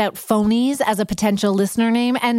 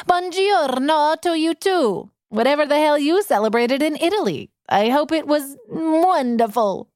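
put-on weird Italian accent; 4 semitones higher than usual. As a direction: greet the Italian listener in a hammed-up Italian accent. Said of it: "That was just a weird accent".

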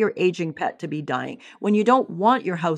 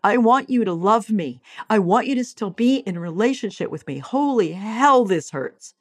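louder, higher pleading cry of the inner monkey; panicked monkey mind; 5 semitones higher, 3 dB louder than usual. Acted. The monkey mind pleading with a lost lover, louder and higher. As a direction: beg like a frantic, hurting monkey. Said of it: "That's monkey".

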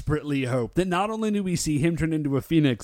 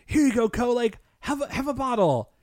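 put-on lightly raised coaxing to a baby; 7 semitones higher than usual. Goro offers Ko the bottle, lightly coaxing. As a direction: coax the baby sweetly. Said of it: "And he says".

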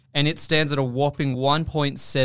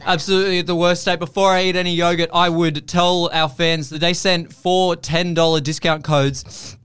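straining through pain; 2 semitones higher, 4 dB louder than usual. Real, not acted. In pain, pushing through the ad read.

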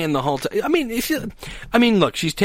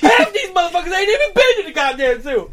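much higher character voice, worked up; older man impression; 12 semitones higher than usual. Imitating an older man waiting for the bus, indignant impression. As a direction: play an older guy ranting, missing his teeth. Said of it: "That was the best black impression".

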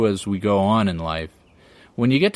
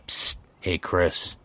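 whispering drug dealer; 4 semitones lower than usual. Pretend. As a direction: murmur it low like a street-corner pusher. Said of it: "whispering sweet offers from the shadows".

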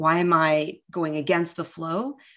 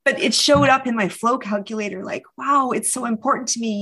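rising, louder, voice welling with emotion; real emotion breaking through, a bit faster; getting emotional; 4 semitones higher, 4 dB louder than usual. Real, not acted. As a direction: let the feeling push the words up and out. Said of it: "gosh, I'm getting emotional".

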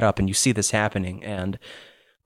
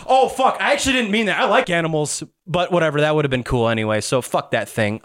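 Lydia; 6 semitones higher, faster than usual. Acted. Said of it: "and she goes".

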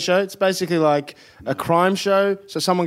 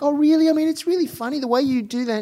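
higher-pitched mock English producer; constipated English accent; 5 semitones higher than usual. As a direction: coax in a put-on stuffy English accent. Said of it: "this accent that you're doing for the people making the show".

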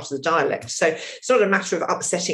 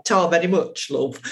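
mock northern thanks. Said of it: "unless I was sort of mucking about going".

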